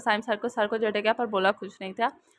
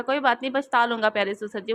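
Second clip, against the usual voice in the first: usual speaking voice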